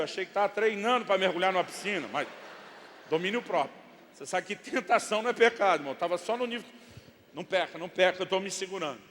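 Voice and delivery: usual speaking voice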